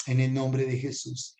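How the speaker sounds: earnest, even-toned blessing; prayer of blessing. Real, not acted. Prays over the viewers.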